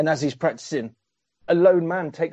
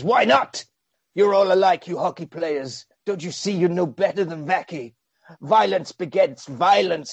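mock scolding; 4 semitones higher than usual. Jesse quoted scolding.

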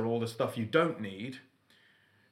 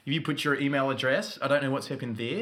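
mock Australian accent. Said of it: "I don't know what accent this is now".

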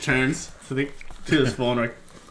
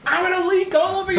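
laughing. Real, not acted. Runny nose, laughing at himself.

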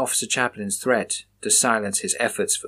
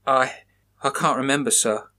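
stammering; 2 semitones higher than usual. Acted. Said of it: "Samson stammered".

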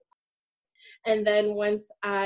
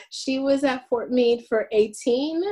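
normal talking voice

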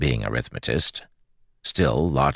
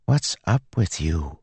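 plain reading voice

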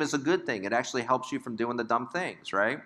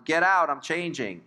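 higher-pitched imitated yell; mock yell; 4 semitones higher than usual. Parent walks in on child changing, imitated mild yell. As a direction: lightly act out an indignant child yelling. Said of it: "they're yelling".

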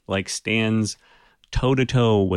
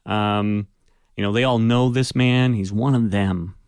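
ordinary talk, nothing marked

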